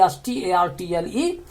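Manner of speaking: एस टी ए आर टी एल ई said letter by letter, quietly; spelling out startle. Shown as a demonstration. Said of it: "स्टार्टल माने चौंकना". (अक्षर-अक्षर spelling)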